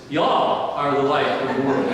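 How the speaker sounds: playful Texan twang. Shown as a demonstration. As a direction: say it like a folksy Texan preacher. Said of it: "So to speak a little Texan".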